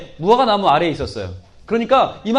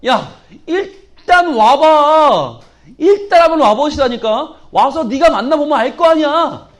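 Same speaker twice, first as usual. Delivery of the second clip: urging come; 3 semitones higher, 4 dB louder, slower than usual. Acted. Philip urges friend loudly.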